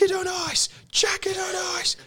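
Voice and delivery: high whispered repeat; whispered urging. Retold or imitated. Overheard instruction retold as a high whisper. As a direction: whisper it urgently, twice.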